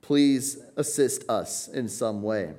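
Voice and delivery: a pleading cry to be saved, slowing at the end; urgent cry for help. Shown as a demonstration. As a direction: plead with rising then easing urgency. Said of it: "issued as an urgent cry".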